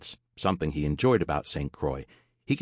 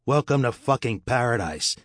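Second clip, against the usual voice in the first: raised, higher-pitched holler; a restrained story-reader's yell; mild yell; 6 semitones higher, 4 dB louder than usual. A narrator's reading. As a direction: call it out to shocked tourists, half yelled. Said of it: "he yelled at the shocked tourists".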